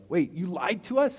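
high, drawn-out mock dismay; dismayed disbelief. Dying follower learns the cause was a lie, dismayed disbelief. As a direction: play the shocked, betrayed martyr.

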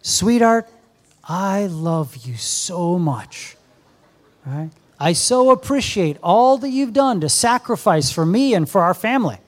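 lightly voiced tender husband; tender to wife. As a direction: tell your wife lovingly. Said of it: "you tell her".

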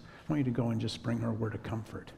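soft inner prompting. Retold or imitated. The Lord's words, voiced softly.

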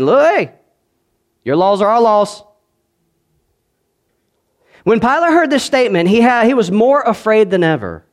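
high, loud preacher's reading; rising sermon cadence; fiery scripture reading. Acted. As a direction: call out the crowd's cry. Scripture read at full force.

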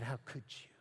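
a deacon's anger climbing as he speaks; angry father. Retold or imitated. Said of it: "his voice began to rise and his anger began to boil".

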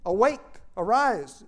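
high, loud, slow plea to God; crying out to God. Retold or imitated. Preacher voicing David crying out to God, a loud slow plea. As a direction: cry it out, begging God to show himself. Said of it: "David cries out".

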